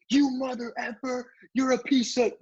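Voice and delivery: high, hammed-up angry woman cursing; mock cussing out. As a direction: squeal the curses like an outraged driver. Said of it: "cussing me out".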